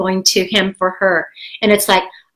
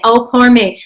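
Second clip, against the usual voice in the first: mock self-pity; 3 semitones higher, 4 dB louder than usual. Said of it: "just say".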